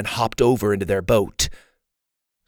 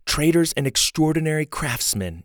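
put-on higher-pitched girl reading out a guidebook; reading aloud; 6 semitones higher than usual. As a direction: read out facts in a higher child's voice. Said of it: "she read".

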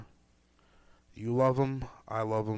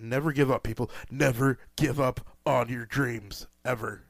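emotional pep talk. Real, not acted. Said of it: "now that I'm all worked up and emotional".

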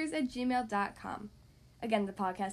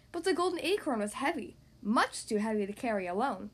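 put-on animated read-aloud to young kids; story narration. Podcast host reading to young kids, story narration. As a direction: read it like a lively picture-book narrator. Reads picture book to children.

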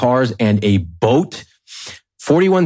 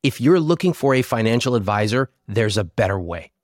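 lively sponsor pitch; ad read; 3 dB quieter than usual. Acted. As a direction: sell it like a podcast ad.

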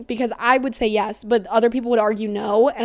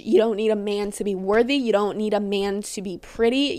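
usual speaking voice

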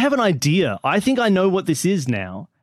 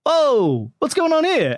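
higher-pitched imitation of a curious cat; nosy cat; 8 semitones higher, slower than usual. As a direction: play a cat butting in, voice lifting. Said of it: "it comes over and it's like".

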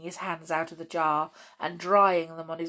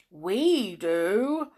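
gentle bear person; 3 semitones higher, 3 dB louder than usual. Acted. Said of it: "said the father bear suddenly".

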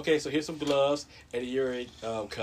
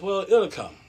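raised, louder breezy reply; imitated nurse; 7 semitones higher, 6 dB louder than usual. Nurse assuring a reluctant patient, raised-pitch reassurance. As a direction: toss it back high as the nurse. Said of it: "She goes".

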